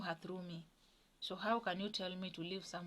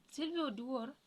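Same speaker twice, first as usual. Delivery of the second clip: mother's put-on voice; 6 semitones higher than usual. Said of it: "talking to me with a different tone of voice".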